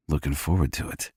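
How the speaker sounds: quietly amused. A narrator's reading. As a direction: toss it back with amusement. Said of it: "amusement in my tone".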